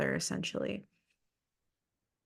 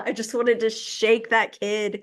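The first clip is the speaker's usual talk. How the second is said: frustrated whisper; 4 semitones higher, 3 dB louder than usual. Real, not acted. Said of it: "frustrated whisper".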